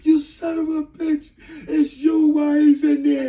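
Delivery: high, loud, slow screamed insult; furious mother. Retold or imitated. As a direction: spit it at him in rage. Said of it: "She was pissed off".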